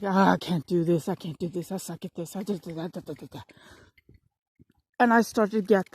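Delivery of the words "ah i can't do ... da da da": fading, much softer despairing mumble; mock defeated moan. Retelling her study slump, moaning and fading out. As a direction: give up mid-sentence, dying away to nothing. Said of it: "I tried to study and I was like".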